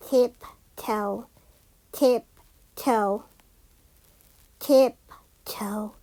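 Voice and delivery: quiet tiptoeing murmur; hushed tiptoe. A narrator's reading. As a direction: creep the words out nearly whispered. Tiptoeing into the cave.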